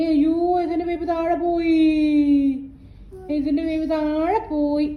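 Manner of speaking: drawn-out mock dismay; playful dismay. Parent to child about the fallen baby, playful dismay. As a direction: lament it slowly, in play.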